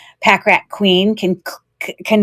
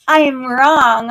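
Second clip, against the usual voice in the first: laughing admission; 4 semitones higher than usual. Real, not acted.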